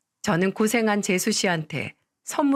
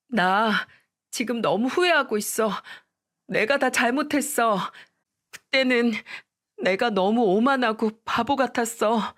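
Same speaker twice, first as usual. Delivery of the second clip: regretful ex-wife; 3 semitones higher than usual. Retold or imitated.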